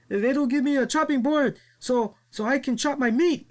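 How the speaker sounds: high, whiny mock complaint; imitating La Parka complaining. Mocking the wrestler griping about his kitchen, high and whiny. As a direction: whine about the missing chopping board in a high voice. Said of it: "he also was like".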